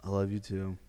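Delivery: imitating a reluctant admission; forced. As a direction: say it as if made to. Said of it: "It's like that, that forced".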